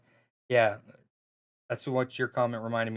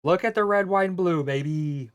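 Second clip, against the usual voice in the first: bigger patriotic hype; 4 semitones higher than usual. Acted. Caster cheering the Patriot play again, more excited. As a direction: really sell the red, white and blue.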